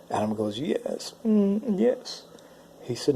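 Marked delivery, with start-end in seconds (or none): 0.6-2.2 high imitated whimper with a moan; crying. Adam answers God's warning, imitated high whimpering. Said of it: "He was crying and whimpering".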